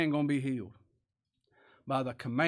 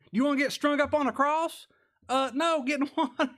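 high-pitched, laughing incredulous question and answer; amused, laughing; 11 semitones higher, 4 dB louder than usual. Real, not acted. Preacher jokes with congregation about cross or water, amused. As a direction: break into laughter on the final words. Laughs at his mock choice.

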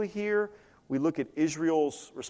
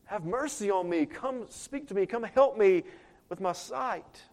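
higher-pitched, pleading call; 4 semitones higher than usual. Shown as a demonstration. Blind man begging Jesus for his sight, pleading call. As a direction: plead for help with a raised pitch.

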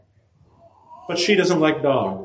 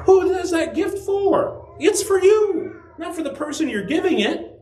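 pointed rhetorical question. Real, not acted. Preacher pointedly asks the congregation who the gift is really for. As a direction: drive the question home.

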